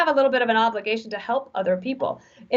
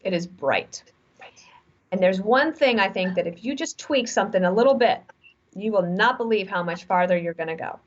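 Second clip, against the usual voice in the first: gentle; 3 semitones lower than usual. Retold or imitated. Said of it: "I gently took her aside one day".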